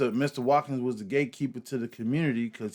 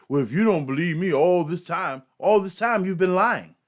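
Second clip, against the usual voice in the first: mocking imitation; 4 semitones higher, 4 dB louder than usual. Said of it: "he wants to try to manipulate you".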